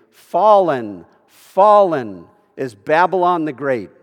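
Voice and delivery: booming angelic announcement, drawn out slowly; mighty cry. Acted. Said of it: "He cried out with a mighty voice".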